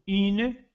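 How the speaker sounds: "Une" com lábios arredondados; une francês. Shown as a demonstration. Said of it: "Olha a diferença de som aí". ("Une" com u francês arredondado)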